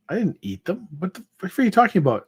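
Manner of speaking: rising indignant pushback; offended shark. Acted. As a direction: shark bristling at the bartender's accusation, indignant. Shark offended by bartender's question.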